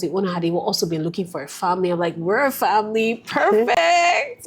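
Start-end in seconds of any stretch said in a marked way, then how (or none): 2.2-4.5 much higher, thrilled little cry on perfect; excited squeal. Retold or imitated. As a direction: squeal it with delight. Retelling her joy at the house.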